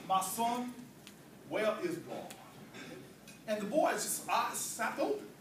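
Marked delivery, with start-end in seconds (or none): 0.1-2.3 low, soft, measured question; very patient. Acted. Pastor to a staring boy, very patient. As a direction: ask gently and patiently, dropping low. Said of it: "says very patiently".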